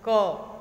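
क said alone, loud and clear, with its hidden अ; stressed sound. Shown as a demonstration. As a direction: punch the single sound क. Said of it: "क मैंने बोला तो उसमें अ का उच्चारण आया". (क को अकेले ज़ोर से, साफ़ अ के साथ बोलें)

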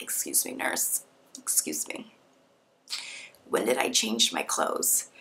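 groggy, hushed and slow, barely voiced; drugged-out whisper. Patient groggily calling the nurse after surgery, drugged-out whisper. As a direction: mumble like you're still half under anesthesia. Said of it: "I sounded more drugged out".

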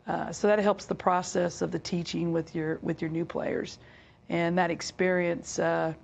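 hoarse, raspy speaking voice. Real, not acted. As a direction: talk through a raspy worn voice. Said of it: "I have a, a raspy voice right now".

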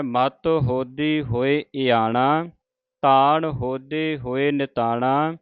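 measured, slow, devout reading of the verse; slow scripture recitation. Acted. Teacher reciting Farid's shalok to the sangat, slow and devout. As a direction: chant each phrase carefully with pauses.

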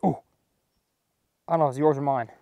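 normal talking voice

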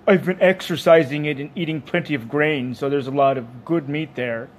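a hint of proud, obliging beast; genial dairy animal. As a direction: recommend your own meat with pride.

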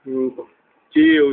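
normal talking voice

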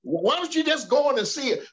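teasingly posing someone else's question; facetious. Pretend. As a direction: ask it with light sarcasm. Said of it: "I'm being facetious, sarcastic".

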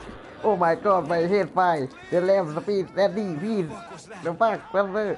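mock panic rant. Gamer clowning for friends, slow hammed-up mock panic. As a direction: stretch each word like a melodramatic victim. Hams panicked cry mid-game.

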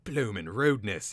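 loud, indignant grumble; complaining. A narrator's reading. Slaughterer knocked to the ground, complaining. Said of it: "he complained".

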